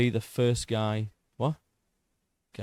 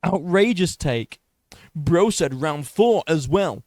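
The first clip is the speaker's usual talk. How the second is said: mock outrage; 5 semitones higher, 6 dB louder, slower than usual. Reacting mockingly to critic's comment.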